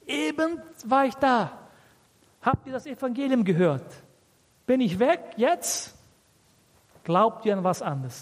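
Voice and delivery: high-pitched, mildly indignant disappointment; disappointed. Acted. Preacher voicing Paul to the Galatians, disappointed. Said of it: "er war sehr enttäuscht".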